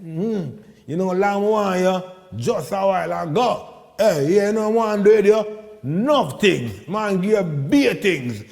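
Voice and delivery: chat-up lyrics. Retold or imitated. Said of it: "We call it lyrics".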